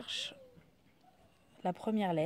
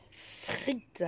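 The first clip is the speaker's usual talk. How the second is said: frites soufflé, sans voix; whispered word; 4 semitones higher than usual. Shown as a demonstration. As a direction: annoncer le mot tout bas. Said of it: "on va chercher". (mot frites chuchoté)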